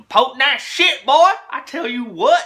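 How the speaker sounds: shouted, high and loud; loud exclamation. Real, not acted. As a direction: belt it out with gusto. Excited outburst about potent dip.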